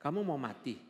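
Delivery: understated retold scolding by a husband; mild mock anger. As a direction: scold lightly, imitating the annoyed husband. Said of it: "Suami saya marah". (menirukan suami marah, tidak keras)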